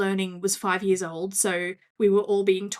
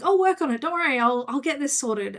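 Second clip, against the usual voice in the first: bright, higher, keen self-quote; eager volunteering; 6 semitones higher than usual. Retold or imitated. Retelling how she jumped at the social media job, eager.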